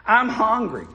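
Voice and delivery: lightly voiced whiny little girl; a hint of a hungry child whining; child's whine. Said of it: "the little girl began to whine".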